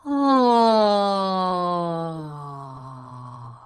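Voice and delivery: open-throated yawn sigh falling. Shown as a demonstration. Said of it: "let's try that yawn sigh one more time".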